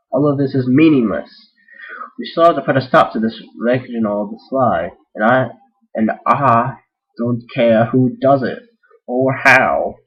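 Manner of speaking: firm royal decree, only lightly put on; horrible Apple Bloom voice. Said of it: "That's a horrible Apple Bloom voice".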